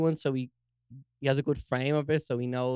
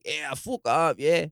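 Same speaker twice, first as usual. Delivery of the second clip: put-on a light Dublin knacker accent; slower than usual. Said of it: "they had a bit of a knacker accent".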